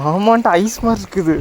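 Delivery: gasping at icy water; in ice cold water. Real, not acted. தண்ணி எப்படி இருக்குன்னு தொட்டு பார்த்து.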